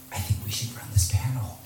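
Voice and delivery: retold hushed, whispered suggestion; conspiratorial whisper. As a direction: quietly float a sneaky plan, as retold. Quiet aside proposing a panel hijack.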